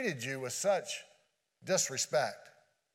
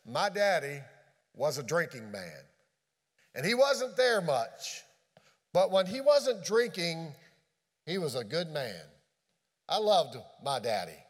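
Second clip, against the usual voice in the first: tired, trembling voice; 3 semitones lower than usual. Retold or imitated. A hint of the frail woman confessing about her father, tired and trembling. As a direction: let the voice sink low and tired. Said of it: "in a tired, trembling voice".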